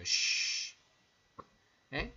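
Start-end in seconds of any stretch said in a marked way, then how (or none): 0.0-0.8 "Sh" as a long hushing sh; sh como para pedir silencio; sh sound. Shown as a demonstration. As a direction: hush like asking for silence. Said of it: "cuando haces el sonido para pedir silencio".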